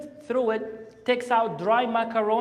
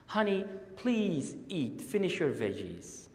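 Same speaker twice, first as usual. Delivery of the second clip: pleading; 5 dB quieter than usual. Acted. Parent begging a child to finish veggies, soft pleading. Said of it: "We're begging our children".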